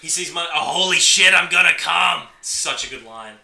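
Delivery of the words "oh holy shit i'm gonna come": loud, high burst of acted ecstasy; excited film quote. Fan quoting a favourite line to co-host, loud and ecstatic. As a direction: blurt it out like you can't contain it.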